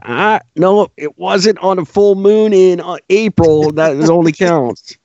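mock lawyer finding a loophole. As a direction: play a pedantic lawyer quibbling over a technicality. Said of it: "lawyers that have the researchers that can find".

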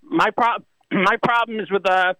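throat needs clearing; a little catch in the throat; frog in throat. Real, not acted. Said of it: "I got a little frog in my throat here".

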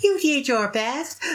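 high, drawn-out cartoon encouragement; Moromi. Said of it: "Moromi in Paranoia Agent saying".

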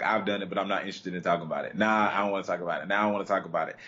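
quick dismissive brush-off; reluctant interviewee. Retold or imitated. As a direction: wave it off fast. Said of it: "one of the things people said".

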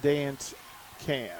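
"Awkward Dad Dance Cam" spaced out word by word; slow, careful wording. Shown as a demonstration. Announcer shows co-host the phrase is hard to say, carefully. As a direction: pick slowly through the tongue-twister. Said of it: "you can't say that really fast".

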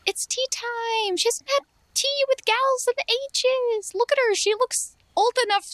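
high sing-song. Acted. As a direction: draw it out high and teasing. Sing-song tea time push.

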